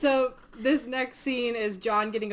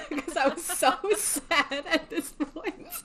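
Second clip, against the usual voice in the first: higher, slow, laughing through the words; laughing while talking; 11 semitones higher, 3 dB louder, slower than usual. Real, not acted. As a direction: laugh and half-cry as you tell it. Laughing at her own sadness.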